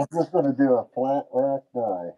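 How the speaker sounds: muffled through a face mask; speaking through a mask, muffled; muffled behind mask. Real, not acted. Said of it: "I'm all muffled. I have my mask on".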